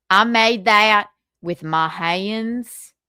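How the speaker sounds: slow, lightly put-on Tommy Jordan; lightly voiced Tommy Jordan. Impersonating Tommy Jordan for the chat, slow and lightly voiced. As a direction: drag it out slowly, a hint of Tommy Jordan. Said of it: "gonna do a Tommy Jordan".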